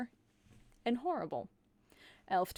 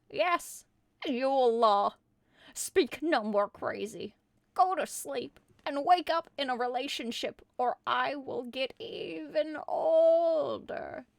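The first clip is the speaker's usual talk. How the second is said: scolding grandma; 3 semitones higher, 5 dB louder than usual. Acted.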